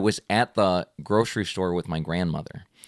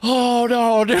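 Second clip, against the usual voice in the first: higher, louder, laughing relief; relieved laugh; 12 semitones higher, 5 dB louder, slower than usual. Retold or imitated. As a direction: laugh off the scare. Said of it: "I was like".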